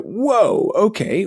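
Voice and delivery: high, surprised whoa; mock shocked whoa; taken aback. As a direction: react as if slapped by the news. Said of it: "I was like".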